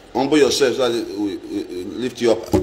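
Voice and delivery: mock preacher. Quoting a pious saying to his viewers in a deep mock-preacher voice. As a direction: drop into a hushed mock-preacher rumble.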